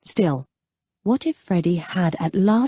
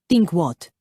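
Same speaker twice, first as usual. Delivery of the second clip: mild challenge. Acted. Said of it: "he challenged mildly".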